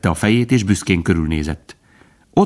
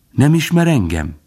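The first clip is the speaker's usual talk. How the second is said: higher, friendly squirrel voice; smiling question; 7 semitones higher than usual. A narrator's reading. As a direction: ask it through a smile. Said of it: "kérdezte mosolyogva". (mosolygós, magasabb hangú kérdés)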